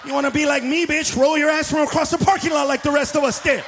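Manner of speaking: loud mock tirade; mock angry rant. Yelling at the wheelchair smoker, a loud mock rant.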